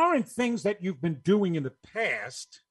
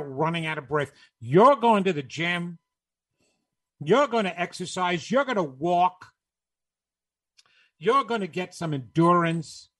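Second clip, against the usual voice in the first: stern inner voice. Acted. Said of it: "is telling another part of you".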